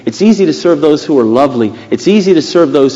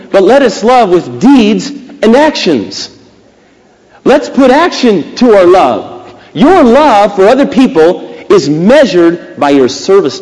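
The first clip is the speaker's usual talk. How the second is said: higher-pitched, forceful preacher delivery; emphatic preaching; 5 semitones higher, 4 dB louder, slower than usual. Real, not acted. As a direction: drive each phrase home to the congregation.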